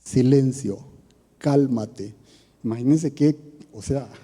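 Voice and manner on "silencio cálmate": a hint of Jesus' firm command, lower; Jesus rebuking the wind and sea, firm command. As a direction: order the storm to be still. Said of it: "le ordenó al mar".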